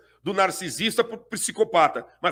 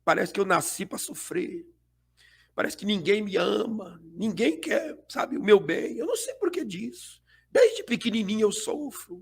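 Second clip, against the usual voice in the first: hushed, whiny victim lament; soft self-pitying whimper; 4 dB quieter than usual. Retold or imitated. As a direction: sigh out the self-pity softly. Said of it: "solta algumas palavras baixinhas de vitimismo".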